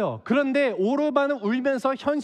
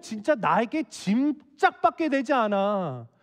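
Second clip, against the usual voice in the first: acted mother-in-law pleading for sense; frustrated lecture to a stubborn daughter-in-law; exasperated scolding; 3 semitones higher than usual.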